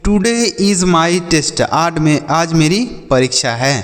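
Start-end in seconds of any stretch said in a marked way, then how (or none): 0.1-1.6 each English word said slowly for the class; slow model sentence. Shown as a demonstration. Teacher to children, modelling an English sentence slowly. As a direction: spell it out slowly for learners. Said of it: "जैसे".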